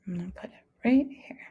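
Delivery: quick whisper to herself; hushed fast aside. Real, not acted. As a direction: drop to a fast whisper while setting it down. Teacher aside while placing picture.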